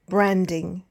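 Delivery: BRAND-ing, with a light ending; first-syllable stress. Shown as a demonstration. Teacher gives learners the example "branding", first syllable stressed. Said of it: "stressing, of course, the first or second syllable".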